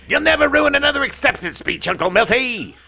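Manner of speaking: high, loud mock shout; a high-pitched mock yell. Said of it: "while shouting".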